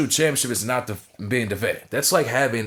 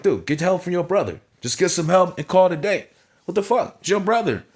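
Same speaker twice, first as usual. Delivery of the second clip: pitched up high, exasperated, mock pleading; exasperated brother; 8 semitones higher than usual. Imitating a fed-up partner, high exasperated plea. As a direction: urge him to get help, voice climbing high. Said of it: "It's like".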